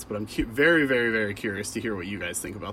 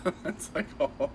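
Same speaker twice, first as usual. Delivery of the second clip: mocking Matt's accent; 6 semitones higher than usual. The speaker mimicking Matt's credit-reading voice, mock babble. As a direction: mimic a silly Irish babble. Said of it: "being a total dick, like".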